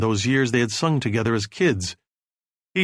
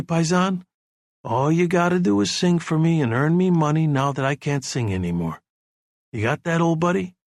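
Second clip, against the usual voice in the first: soothing; 3 semitones higher than usual. Acted. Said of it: "Johnny was talking to him soothingly".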